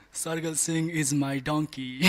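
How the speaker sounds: slow, laughing through the words; slow punchline, cracking up. Retold or imitated. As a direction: hold back the laugh and reveal it. Punchline delivered while laughing.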